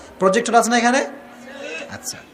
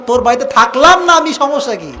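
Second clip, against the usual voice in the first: defiant wife; 4 semitones higher, 3 dB louder than usual. Retold or imitated. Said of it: "আর স্ত্রী কয়".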